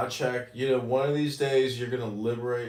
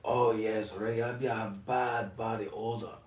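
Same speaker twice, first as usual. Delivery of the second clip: quoted master; 3 semitones lower, 5 dB quieter than usual. Retold or imitated. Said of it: "It's like".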